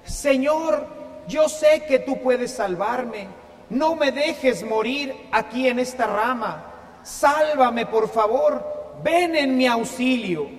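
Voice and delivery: ruego algo más fuerte e insistente; súplica insistente. Acted. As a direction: suplica a Dios que lo salve. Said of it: "insiste con más fuerza". (súplica leve con un poco más de fuerza)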